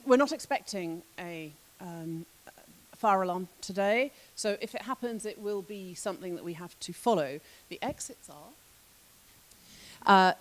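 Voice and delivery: cabin crew safety announcement; brief the exits like flight crew; air hostess voice. Pretend. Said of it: "this is where I have to do my air hostess impression".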